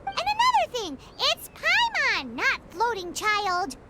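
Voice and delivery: indignant outburst. Acted. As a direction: snap back at the insult. Offended at being called floating child.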